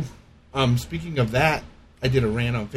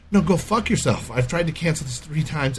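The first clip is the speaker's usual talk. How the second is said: angry; 5 semitones higher than usual. Retold or imitated. Retelling blowing up at staff.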